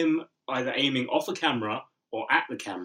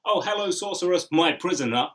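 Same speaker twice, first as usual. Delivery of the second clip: dark lord; 6 semitones higher, 4 dB louder than usual. Retold or imitated. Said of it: "It's like".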